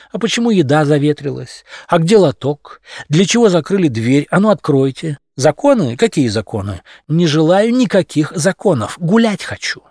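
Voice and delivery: whiny spoiled cat voice; capricious cat. Acted.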